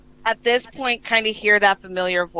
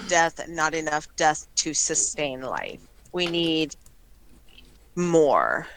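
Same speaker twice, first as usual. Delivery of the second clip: slow hissing strangling vine. Acted. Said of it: "a sentient plant speaks to you".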